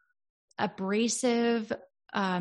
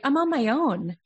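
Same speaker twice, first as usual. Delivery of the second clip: loud, raised mock distress; abandoned child; 5 semitones higher, 5 dB louder than usual. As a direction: cry out as the child left alone. Acting child left alone with fear.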